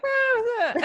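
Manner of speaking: high-pitched imitated noise of hesitation; mock a reluctant, high "ah"; exaggerated hesitant squeal. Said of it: "Sean seemed hesitant".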